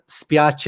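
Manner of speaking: "spiace" said spee-AH-cheh, Italian style; Italian word spiace. Shown as a demonstration. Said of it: "in Italian".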